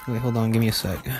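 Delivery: talking around something in the mouth; words muffled by a mouthful; mouth full. Real, not acted. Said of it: "I have something in my mouth".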